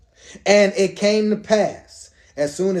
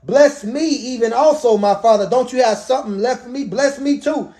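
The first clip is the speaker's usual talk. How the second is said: bitter pleading; 4 semitones higher than usual. Acted. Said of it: "He cried with a great and exceeding bitter cry".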